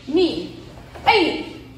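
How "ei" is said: kiai shout. Shown as a demonstration. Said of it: "O Kiai é o grito do karatê".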